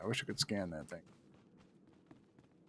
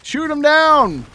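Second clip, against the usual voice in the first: loud command; 12 semitones higher, 8 dB louder, slower than usual. Pretend. Urging teammate in fight.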